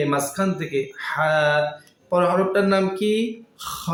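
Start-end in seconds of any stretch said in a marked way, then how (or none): 1.0-1.3 "হা" from the middle of the throat, air first, then voice; throaty ha. Shown as a demonstration. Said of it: "হলকের মধ্যম থেকে". 3.6-3.9 "খ" scraped from the end of the throat, softer than the talk; back-of-throat kha. Shown as a demonstration. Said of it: "হলকের শেষ ভাগ হতে".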